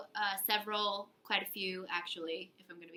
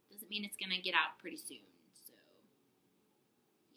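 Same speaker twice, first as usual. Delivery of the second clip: whispering; 3 semitones lower, 7 dB quieter, faster than usual. Real, not acted. Whispered aside.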